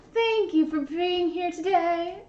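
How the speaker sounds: lightly put-on movie line, drawn out; slow, sing-song thank-you; Princess Diaries quote. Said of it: "I love The Princess Diaries".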